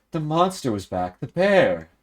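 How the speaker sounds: lightly voiced frightened noble; Lisa speaking. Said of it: "Lisa says".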